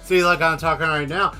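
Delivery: talking through teeth. Shown as a demonstration. Host showing an annoying habit, talking through clenched teeth. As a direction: demonstrate talking with the teeth held together. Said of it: "talking like this through their teeth".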